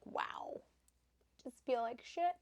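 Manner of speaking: breathy whisper of self-doubt. Retold or imitated. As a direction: sigh it out under your breath. Quoting a bad body day.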